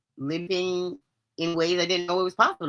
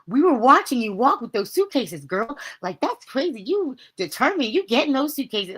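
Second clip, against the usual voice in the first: employee quote; 6 semitones higher, 4 dB louder than usual. Retold or imitated. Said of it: "some of the employees were like".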